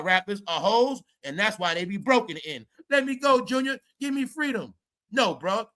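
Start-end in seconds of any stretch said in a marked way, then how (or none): 2.9-4.7 mock whiny plea. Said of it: "You sound like a bitch".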